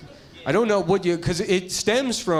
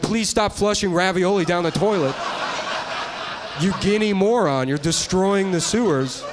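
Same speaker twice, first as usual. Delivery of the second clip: lightly hammed-up public scolding, pitched up; mock exasperated announcement; 5 semitones higher than usual. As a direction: plead with the public, a touch exasperated. Acted scolding public service announcement.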